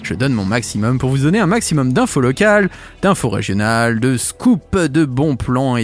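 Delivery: slightly slurred speech; talking with a sore mouth; after wisdom teeth. Real, not acted. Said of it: "j'ai parfois un peu de mal à parler".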